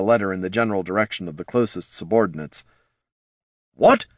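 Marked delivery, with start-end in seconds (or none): 3.7-4.1 sharp high What; shocked demand. A narrator's reading. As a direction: bark the question in disbelief. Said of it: "demanded Captain Bothwick".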